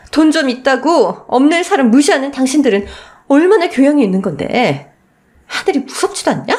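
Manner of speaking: building from cold sarcasm to a high shrieking curse; enraged wife cursing the in-laws; furious rant. Acted. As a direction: unload every grievance at the in-laws. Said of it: "악을 썼어요".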